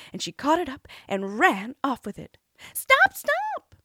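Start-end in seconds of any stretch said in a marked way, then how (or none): 2.7-3.8 high, loud croaky frog cry. A narrator's reading. Frog shouting after the princess, high and loud. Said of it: "cried the frog".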